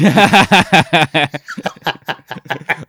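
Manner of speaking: long burst of loud laughter. Real, not acted. Cracking up at his co-host's Patreon joke, laughing loud. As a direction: let a big laugh burst out.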